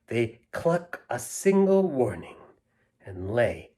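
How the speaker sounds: bouncy read-aloud verse; rhythmic children's poem reading. Acted. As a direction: recite with a storyteller's lilt.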